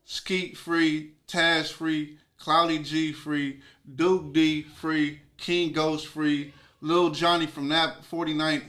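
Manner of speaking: measured roll call of names, each one drawn out slowly; roll-call shout-out. Real, not acted. Congratulating freed friends one by one, roll-call shout-out. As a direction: announce each name slowly with a beat between.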